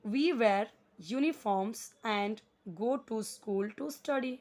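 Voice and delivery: measured, spaced-out classroom reading; slow model reading. Shown as a demonstration. Teacher reads for weak readers to follow, slow model reading. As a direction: read very slowly, word by word. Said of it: "इस word को मैं क्या पढ़ रही हूँ".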